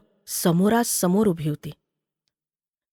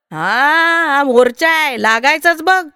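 higher, loud shout back; child's argumentative yell; defiant retort; 4 semitones higher, 4 dB louder than usual. Acted. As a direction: brush off the complaint at full voice. Child shouts back, dismissing injury.

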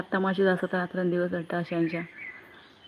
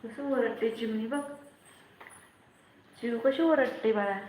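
higher, softer coaxing murmur; 5 semitones higher, 10 dB quieter than usual. Real, not acted. Mother murmuring softly to her toddler about the heat, higher and softer.

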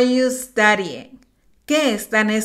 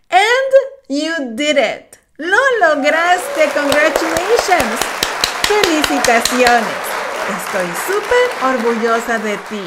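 excited praise; 3 semitones higher than usual. Real, not acted. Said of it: "felicita al alumno".

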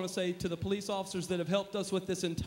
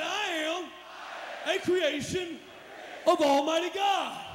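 loud, high, building to the end; 6 semitones higher, slower than usual. Shown as a demonstration. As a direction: push it bigger the second time. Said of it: "Come on, say it".

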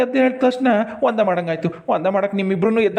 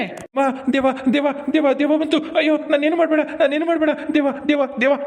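babbled, repetitive cries of fright; acted panic; 3 semitones higher than usual. Man waking from a faint begs the ghost off, acted panic. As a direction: plead in a rush, lightly raised.

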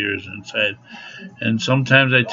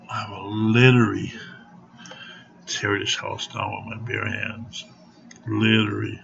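quiet threat; 7 dB quieter than usual. Real, not acted. Threatening to tear the house down, quiet menace. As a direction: drop soft and threaten with restraint.

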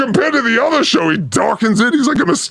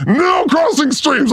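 mock stern rule; slower than usual. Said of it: "He's like".

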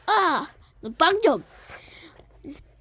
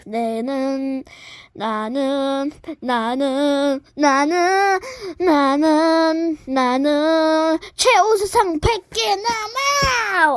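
building brag; much slower than usual. Acted. Building boast, repeated 나는.

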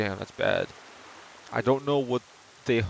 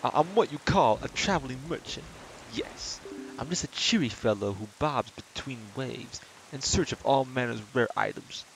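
Christopher Walken impression; 4 dB quieter than usual. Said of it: "I used to sound like Christopher Walken".

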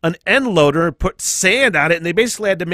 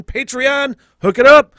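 playful plea; 8 semitones higher, 7 dB louder than usual. Real, not acted. Begging Patreon supporters.

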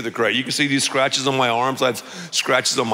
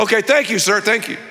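tag too weak; 7 semitones higher, 3 dB louder than usual. Acted. Cutting off the rambling witness.

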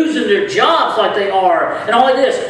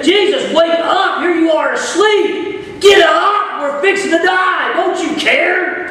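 raised, urgent cry to wake Jesus; panicked shout; 5 semitones higher than usual. Retold or imitated. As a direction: call out like frightened men in a sinking boat. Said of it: "here they say".

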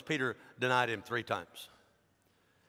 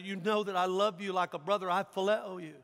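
mildly pleading, raised voice; acted, earnest appeal; breaking down; 5 semitones higher than usual. Disciple pleading his brotherly love to Jesus, mild anguish. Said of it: "he just breaks down".

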